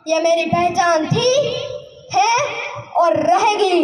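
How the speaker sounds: stirring patriotic verse, rising to a cry; impassioned poem recital. Acted. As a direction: recite it with fiery pride.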